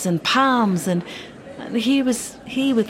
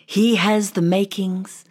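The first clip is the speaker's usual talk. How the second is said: king's speech; 2 semitones lower than usual. Acted. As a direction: address the crowd, then soften at the end. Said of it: "the king said loudly".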